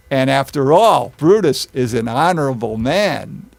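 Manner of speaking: understated sarcastic concession; feigned respect, lightly pointed; mock-sincere sarcasm. Teacher voicing Antony on Brutus, dryly sarcastic. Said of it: "this is where sarcasm comes in".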